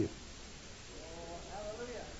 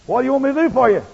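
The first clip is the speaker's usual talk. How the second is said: louder, higher call across the crowd; 7 semitones higher, 8 dB louder, faster than usual. Retold or imitated. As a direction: call out to the blind man over the noise. Jesus calling to Bartimaeus.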